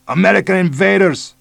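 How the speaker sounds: put-on high, loud bellow with Mexican accent; shouting. A narrator's reading. Police chief bellowing at American invaders, loud shout. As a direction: bellow it from the jungle. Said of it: "the man shouted".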